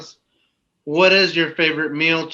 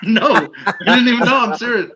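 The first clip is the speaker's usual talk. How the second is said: high, loud indignant protest; 8 semitones higher, 7 dB louder than usual. Real, not acted. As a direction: insist loudly, half-laughing. Protesting being called a liar.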